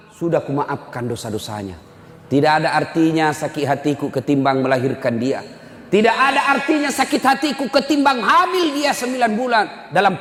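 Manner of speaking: forgive him with a breaking heart; tearful forgiveness. Acted. Mother forgiving, emotional.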